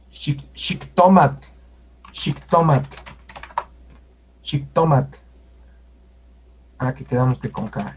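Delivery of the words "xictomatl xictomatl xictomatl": xictomatl with a barely breathed final L; careful xictomatl, tl nearly silent; soft tl. Shown as a demonstration. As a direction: say xictomatl as shik-TO-mat with a light release. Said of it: "sino Tepetl".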